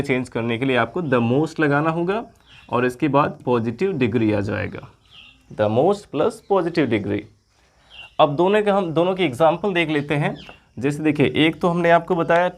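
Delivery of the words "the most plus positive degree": slow formula. Shown as a demonstration. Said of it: "teacher stating the formula".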